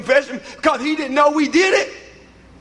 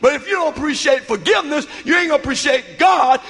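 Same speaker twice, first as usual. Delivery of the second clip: preaching climax. Real, not acted. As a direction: preach it, building each line. Building preaching climax over music.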